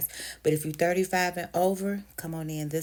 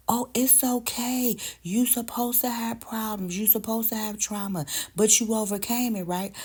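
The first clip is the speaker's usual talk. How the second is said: mock reassurance; 5 semitones higher than usual. Mocking what others tell her.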